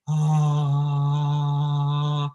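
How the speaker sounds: long, airy held "ah"; breathy "ah". Shown as a demonstration. Coach reminding singers of breathy, an airy held "ah". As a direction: let air through a sustained "ah". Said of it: "Let's remember breathy".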